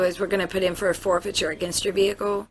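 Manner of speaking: ordinary talk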